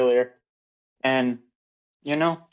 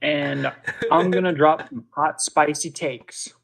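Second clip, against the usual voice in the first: loud, hyped streamer intro; pumped-up host voice; Vex impression; 4 dB louder than usual. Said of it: "That was a good Vex impression".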